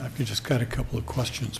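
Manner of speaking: slightly hoarse, rusty voice; rough voice after clearing throat; rusty unused voice. Real, not acted. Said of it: "pardon my voice".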